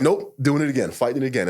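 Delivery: high, loud exasperated cry; frustrated outburst. Retold or imitated. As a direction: blurt it out, fed up. Fighting his ego, frustrated.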